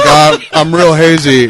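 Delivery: dazed mock voice. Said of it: "You're like".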